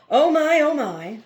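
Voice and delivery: sudden high, loud cry fading down; tired voice. A narrator's reading. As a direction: burst out then sink tiredly. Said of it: "a tired voice from somewhere behind his head".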